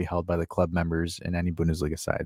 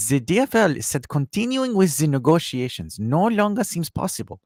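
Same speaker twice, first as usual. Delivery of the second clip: mock German accent; 5 semitones higher than usual. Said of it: "do it in a German accent".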